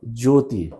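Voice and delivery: ज्योति with short final इ; correct pronunciation. Shown as a demonstration. Teacher giving the correct word, pronunciation demo. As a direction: finish ज्योति on a brief i. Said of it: "यहां पर सही है".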